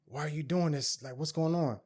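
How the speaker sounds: mock bewildered protest; acted confusion. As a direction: imitate someone baffled by what is happening. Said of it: "he started looking confused".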